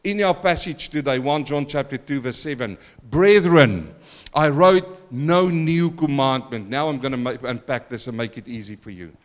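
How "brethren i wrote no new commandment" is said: proclaimed scripture. Acted. Preacher proclaims scripture aloud.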